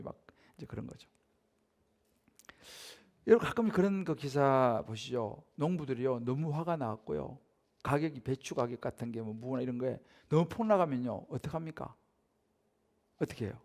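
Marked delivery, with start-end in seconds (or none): none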